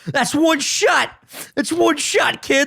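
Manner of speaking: high-pitched, slow mock crowing; imitated knockout boast. Ronnie boasting on the boardwalk, mock crowing. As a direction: crow over a knockout in someone else's voice.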